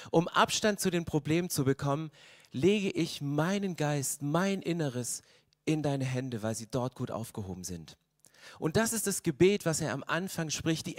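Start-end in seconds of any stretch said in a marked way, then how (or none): 2.5-8.0 quiet prayer. Acted. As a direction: let it fade out in trust. Quoting David's surrender prayer. (leises, langsames Hingabegebet)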